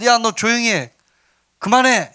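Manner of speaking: high-pitched acted telling-off; scolding. Crowd telling the blind men to stop, acted high scolding. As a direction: hush them like an irritated crowd. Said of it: "잠잠하라고 하는데".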